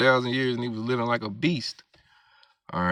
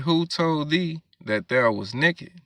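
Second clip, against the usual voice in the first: stern voice of the Lord; 5 semitones higher, slower than usual. Acted. God questions Adam in scripture.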